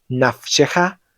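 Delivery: teacher demonstrating Nafsheja for learners; slow clear demo. Shown as a demonstration. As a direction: model Nafsheja carefully, syllable by syllable. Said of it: "la letra Kaf Sofit viene acompañada".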